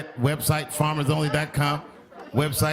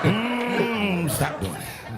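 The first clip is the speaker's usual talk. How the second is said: disapproving onlooker; 3 semitones higher, much slower than usual. Acted. Acting disapproving black onlookers.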